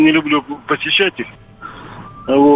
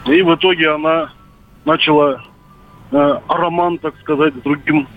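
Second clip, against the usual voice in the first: over a landline phone. Real, not acted. Caller on radio phone line.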